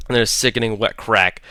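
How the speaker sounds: plain reading voice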